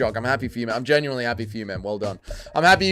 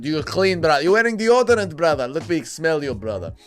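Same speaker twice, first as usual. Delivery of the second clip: a lightly voiced fighter sniffing his buddy; hammed-up fighter. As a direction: play a clingy fighter, drawn in. Impersonating a fighter hugging.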